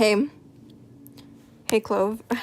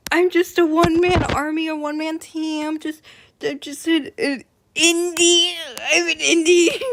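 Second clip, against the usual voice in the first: laugh-crying; 6 semitones higher, 3 dB louder than usual. Real, not acted. Flustered self-pity, laughing-crying.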